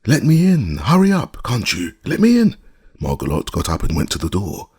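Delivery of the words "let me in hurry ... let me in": loud, high-pitched cat demanding entry; piercing, impatient creature voice; shrill cry. A narrator's reading. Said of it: "a shrill voice cried".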